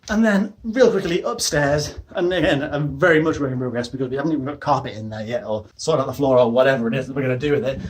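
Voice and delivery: out of breath from the stairs; puffing between words, winded. Real, not acted. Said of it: "I'm so out of breath".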